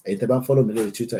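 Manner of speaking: usual speaking voice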